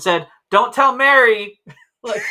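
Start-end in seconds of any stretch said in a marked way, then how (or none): 0.5-1.6 high, loud mock heckle; raised-voice imitation of a heckler; imitated crowd shout. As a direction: shout it out slowly like someone in a crowd. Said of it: "someone in the crowd shouted out".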